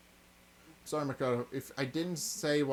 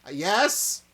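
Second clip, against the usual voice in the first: much higher, louder startled cry; shocked yell; 5 semitones higher, 9 dB louder than usual. Real, not acted. Player startled by a surprise character, yelling.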